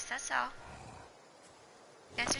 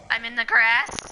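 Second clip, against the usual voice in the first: slow, louder, pleading; panicked insisting; 8 dB louder than usual. Real, not acted. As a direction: drag it out in panic. Hiding, repeated louder.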